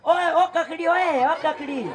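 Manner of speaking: mock boys hailing a vendor; लड़कों की पुकार. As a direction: imitate rude kids calling out, drawn into a chant. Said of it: "पता कैसे बोलते हैं लड़के ये?". (लड़कों के बेअदब अंदाज़ में पुकारने की नकल)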